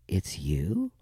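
hushed, whispered disbelief; stunned whisper. Retold or imitated. Mom realizes who is calling after silence, stunned whisper. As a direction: whisper it as a stunned mother would.

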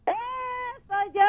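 excited. Shown as a demonstration. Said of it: "hazlo otra vez".

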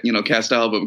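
ordinary talk, nothing marked

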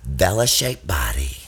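slow whispered celebrity voice; a pop singer's whisper. Acted. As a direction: whisper it seductively.

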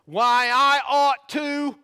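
loud, high, drawn-out mock threat; blustering threat cut short before the consequence; unfinished threat. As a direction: stretch it out slowly and loudly, left hanging. Acts out familiar unfinished threat.

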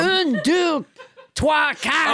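counting in hammy French; French Trump. Acted. French Trump proves the translation by counting, hammy French accent. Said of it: "your extremely realistic accent".

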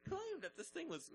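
distorted mic clipping. Real, not acted. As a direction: blown out audio. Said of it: "sorry for blowing out your ears".

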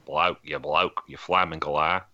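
broad Australian accent. Shown as a demonstration. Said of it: "That's my Australian accent".

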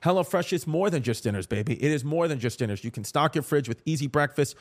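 upbeat, scripted sponsor read. Real, not acted. Host pitching meal kits to listeners, polished ad read. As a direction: sell it like a podcast host's ad.

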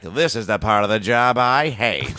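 slow, resigned grumble through a laugh; a touch of weary dinosaur. Retold or imitated. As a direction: sigh through the line. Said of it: "the dinosaur ... was like".

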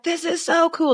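high, thrilled "this is so cool"; excited gush. Retold or imitated. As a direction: gush like a kid who loves it.

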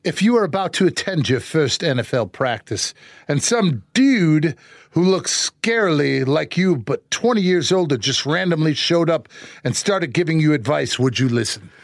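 put-on a light British accent, reading the question card. Host asks for a British accent on the question card, lightly done. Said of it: "Give me your best British voice".

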